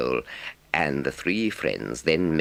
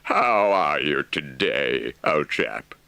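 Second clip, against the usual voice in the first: cheerful; slower than usual. A narrator's reading. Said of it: "inquired the Rat cheerfully".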